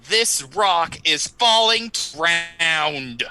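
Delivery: said slowly and gravely; drawn out like a heavy warning; slow solemn warning. Acted. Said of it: "I want to say".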